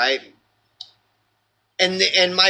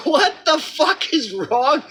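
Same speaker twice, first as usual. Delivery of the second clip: laughing disbelief; 10 semitones higher than usual. Real, not acted. Exasperated at friends.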